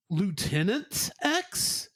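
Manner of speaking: slow, slimy villain voice; drawn-out sinister villain; Lieutenant X. Acted. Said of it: "I'm trying to do Lieutenant X".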